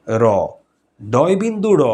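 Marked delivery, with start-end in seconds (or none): 0.1-0.2 র as a gentle tongue-tip "ro"; soft r. Shown as a demonstration. Teacher contrasts the three r letters, র kept soft. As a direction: say র smoothly, without curling the tongue. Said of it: "এটার উচ্চারণটা হচ্ছে বেশ মোলায়েম".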